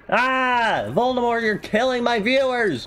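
high-pitched alarmed wail; mock panic. Player scolding Voldemort for viewers, high mock panic. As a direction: shriek it in comic alarm.

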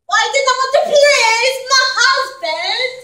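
put-on high, loud German-accented therapist. Therapist questioning the wife, German accent. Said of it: "had a German accent and gasped".

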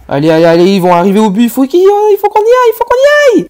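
rising, loud panicked push; yelling at teammates to hurry toward the goal; frantic urging. Real, not acted. Gamer urging his team on in a frantic shout.

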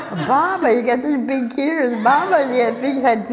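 put-on high, childlike wonder, Baba in the wolf role; Red Riding Hood. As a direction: play the awed little girl facing the wolf. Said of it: "I was like Red Riding Hood".

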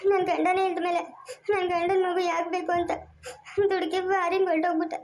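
crying while saying sorry; tearful apology. Acted. Mother apologising to Sangeetha for going abroad, crying. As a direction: apologise through tears.

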